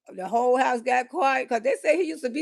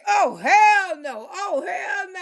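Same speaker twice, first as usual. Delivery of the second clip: outraged; 4 semitones higher, slower than usual. Retold or imitated. Catching boyfriend in bed.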